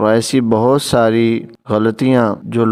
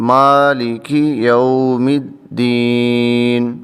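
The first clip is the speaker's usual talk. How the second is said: slow, drawn-out recitation; Quran recitation; much slower than usual. Shown as a demonstration. Teacher reciting the next verse, slow recitation. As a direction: chant it slowly in tajweed style. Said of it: "آگے چلتے ہیں".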